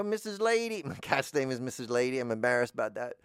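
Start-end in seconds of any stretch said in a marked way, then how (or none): 0.0-0.8 sing-song call to the cat. Retold or imitated. Calling her cat by name, high sing-song. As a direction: coo the cat's name high.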